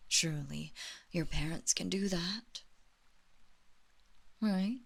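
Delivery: whisper. Acted. Mistress whispering to her servant. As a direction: whisper the question.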